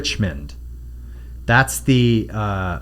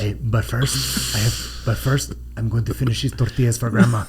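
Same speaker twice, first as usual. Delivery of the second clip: put-on Latino accent. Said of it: "talking like his name is Oswaldo Lopez".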